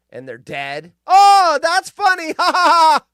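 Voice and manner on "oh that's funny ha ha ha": high, loud mock amused voice with fake laugh; mocking someone amused. Mocking people who post deaths, high mocking laugh. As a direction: ham up a callous onlooker. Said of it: "Not me thinking it's funny".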